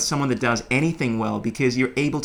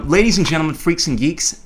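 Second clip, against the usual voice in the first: hype announcer; 4 semitones higher, 5 dB louder than usual. Acted. Podcast outro hype announcement.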